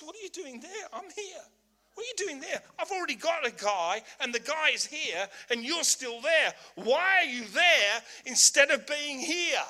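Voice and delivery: God calling Samuel over, amused; mock-incredulous God, rising loud. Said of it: "He says".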